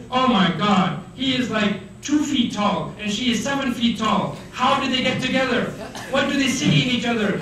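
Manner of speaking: high-pitched mock disbelief; astonished onlooker. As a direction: gossip in amazement about an odd couple. Acted onlookers gossiping about couple.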